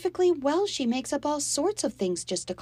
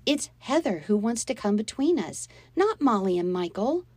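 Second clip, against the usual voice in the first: higher, louder mother arguing back; raised voice; 9 semitones higher, 5 dB louder than usual. A narrator's reading. Mother defending her children to her husband, voice raised. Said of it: "Mom's voice rose too".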